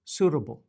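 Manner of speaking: Suitable with the t tapped like a quick D; Suitable, light flapped T; T softened to D. Shown as a demonstration. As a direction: say Suitable as "soo-duh-bul".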